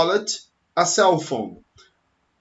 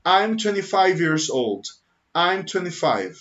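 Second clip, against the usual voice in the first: slow model answer. Shown as a demonstration. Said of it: "quando alguém te pergunta".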